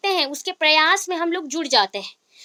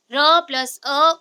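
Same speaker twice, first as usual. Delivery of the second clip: spelled out; 3 dB louder, much slower than usual. Shown as a demonstration. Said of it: "slow spelling, then corrected".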